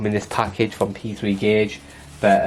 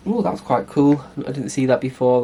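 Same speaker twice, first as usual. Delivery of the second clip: pleasantly surprised; 3 semitones higher, 6 dB louder than usual. Real, not acted. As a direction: react like you just found a gift. Surprised by a key ring.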